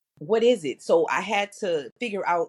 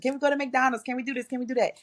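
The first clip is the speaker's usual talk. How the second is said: put-on kids asking; 8 semitones higher, much faster than usual. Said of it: "My children were talking, asking questions".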